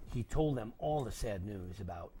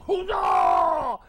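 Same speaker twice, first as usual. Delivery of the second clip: loud high huzzah shout; cheer; 14 semitones higher, 14 dB louder than usual. Acted. Men cheering Sybil's arrival, loud shout. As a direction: cheer it out like a crowd. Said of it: "all the men yelled".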